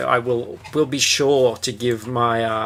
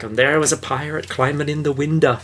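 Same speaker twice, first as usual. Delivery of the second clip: put-on Yorkshire accent; 3 semitones higher than usual. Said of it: "I got the Yorkshire".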